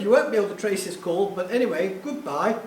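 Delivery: lightly imitated posh English caller; a hint of upper-crust English. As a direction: put on a mildly posh goodbye. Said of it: "this very posh voice said".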